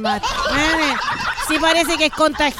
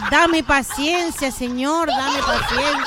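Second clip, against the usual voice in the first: laughing exasperation. Real, not acted. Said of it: "que me hace rabiar".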